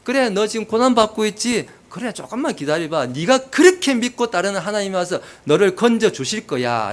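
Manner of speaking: jeering, lightly acted; mock taunting. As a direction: act out a scoffer needling the sufferer. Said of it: "비아냥대는 거예요".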